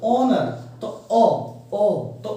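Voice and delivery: slow ऑनर starting on a bare ओ; sounding out honour. Shown as a demonstration. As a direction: draw out the opening ओ of ऑनर slowly. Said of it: "इसको बोलेंगे ऑनर".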